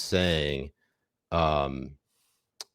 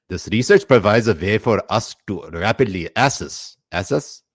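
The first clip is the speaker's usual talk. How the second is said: put-on Pakistani accent; 2 semitones higher, 4 dB louder than usual. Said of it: "do this in Pakistani accent".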